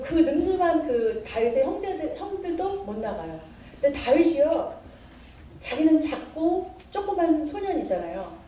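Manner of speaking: ordinary delivery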